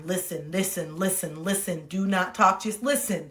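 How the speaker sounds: soft, low repeated self-reminder; inner self-coaching. Retold or imitated. Telling herself to listen while friend talks, quiet inner self-coaching. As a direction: murmur it as a private mantra. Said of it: "I would be in my mind".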